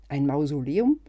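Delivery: loud, incredulous rise on Mausoleum; surprised question. Acted. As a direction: blurt out Mausoleum in disbelief. Ungläubige Rückfrage zum Einkaufszettel. (ungläubig und laut nachgefragt)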